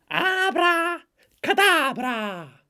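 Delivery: high, loud screech with drawn-out vowels; screamed spell. Acted. Young Satanist casting a made-up spell, screeched. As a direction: shriek it like a black metal spell.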